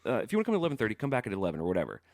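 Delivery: high, exasperated bouncer retort, partly laughing; mock irate doorman. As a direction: play the fed-up doorman who's said it already. Doorman snaps at pushy guest.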